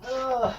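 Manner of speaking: strained groan while bending; effortful groan. Real, not acted. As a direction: groan from back pain. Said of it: "my back hurts".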